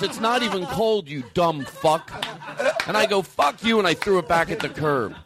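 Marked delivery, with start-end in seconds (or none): 0.0-2.1 mock aggression. Audience member throws ice cream back at him, mock aggressive. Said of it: "So you take it aggressively". 3.2-3.8 higher, punchy mock-angry retort; play-fight insult, hammed up; mock aggression. Comic throws ice cream back at customer, mock aggressive. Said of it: "So you take it aggressively".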